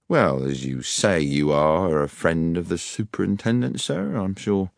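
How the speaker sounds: lightly pompous policeman backing down; grudging police sergeant. Acted. Sergeant yielding to the superintendent's friend, grudging and deferential. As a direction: give way with careful deference.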